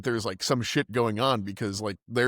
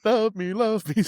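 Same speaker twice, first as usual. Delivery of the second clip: high, slow mock stage plea; hammed-up stage performer; 10 semitones higher, 4 dB louder than usual. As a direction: overdo it like a bad musical. Imitating the bad play's song.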